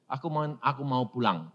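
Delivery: put-on a weak child answering gently; soft child voice. Dying daughter tells family, softly wanting to go home.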